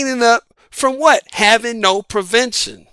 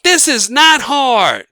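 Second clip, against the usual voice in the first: slow and weighted, word by word; slow, emphatic; 2 semitones higher, 3 dB louder, slower than usual. Real, not acted. Host repeating to his audience, slow and emphatic. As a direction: spell it out slowly. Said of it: "Come on, people".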